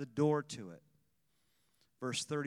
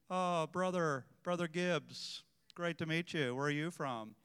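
quieter, lightly smug small talk; a minister sizing up a rival with fake politeness; understated condescending welcome; sizing someone up; 4 dB quieter than usual. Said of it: "They size you up".

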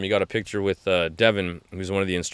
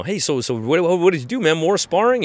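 higher, eager questioning voice; imitating curious questioner; 7 semitones higher than usual. A fan quizzing the fighter after the bout, eager questions. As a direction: quiz him like a curious fan. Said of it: "great to hear people".

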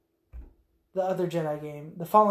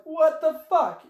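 mock shocked Anakin; 9 semitones higher, 5 dB louder, slower than usual. Anakin reacts, retold.

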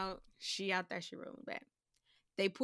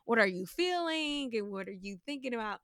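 therapist voice. Retold or imitated. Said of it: "full-blown shrink mode".

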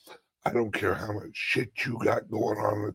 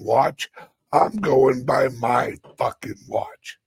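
louder, angry, mock-furious; louder mock-angry telling-off; defiant rant; 3 semitones higher, 7 dB louder than usual. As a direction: tell them off with hammed-up fury.

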